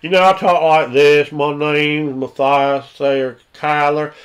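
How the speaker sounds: lightly voiced rural good ol' boy; a hint of a drawling backwoods demon hunter; Matthias Sayer Kyler. In character to the metagamer, lightly voiced country hunter. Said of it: "my character was".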